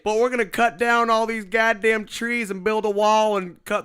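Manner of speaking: lightly voiced Trump rally pledge; Trump impression. Host lightly voicing Trump promising to build a wall. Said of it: "your Donald Trump accent".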